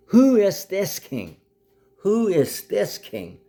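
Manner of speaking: high, slow, emphatic challenge; drawn-out high-pitched demand; indignant demand. Real, not acted. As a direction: draw it out high and forceful. Indignant challenge, repeated question.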